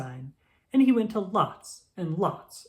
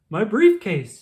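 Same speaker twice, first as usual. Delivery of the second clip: loud alarmed cry, higher; 5 semitones higher, 9 dB louder, slower than usual. A narrator's reading. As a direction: cry out for the lost briefcase. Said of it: "he said".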